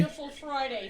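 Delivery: lightly imitated British Friday; mock British accent. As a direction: put on a touch of British. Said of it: "he turns into a British man".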